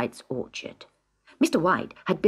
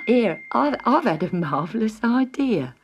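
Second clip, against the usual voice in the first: excited father; 3 semitones higher than usual. A narrator's reading. Mr Martin with sudden idea.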